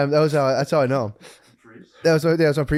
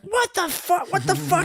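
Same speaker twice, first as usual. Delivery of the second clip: much higher, put-on squeaky panic; mock panicked friend; slower than usual. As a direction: shriek it like a startled buddy. Retelling the preacher's panicked call.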